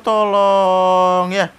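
tolong ya diseret sangat lambat; memohon panjang. Real, not acted. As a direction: ucapkan pelan memelas. Memohon pelan dan panjang. (memohon dengan tempo sangat lambat)

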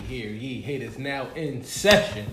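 hammed-up royal announcement; town crier. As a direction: proclaim it like a crier. Podcast opener, mock court crier.

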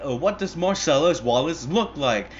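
imitated interrogator. Hitman questioning wounded man, insistent. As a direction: press the question as a movie heavy.

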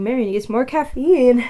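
sleepy, mid-yawn. Real, not acted. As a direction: talk through a yawn. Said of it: "I keep yawning".

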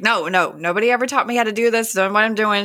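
lightly acted flustered protest; mildly freaking out. Young mother refusing help with baby, understated imitated panic. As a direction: rush it a little, as an overwhelmed mother. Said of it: "She's freaking out".

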